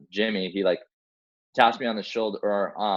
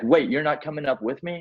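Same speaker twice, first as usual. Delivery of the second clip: higher-pitched, taken-aback question; imitated dismay; 6 semitones higher than usual. Patient to rescuer who is staying below, mildly dismayed surprise. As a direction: mimic a patient caught off guard.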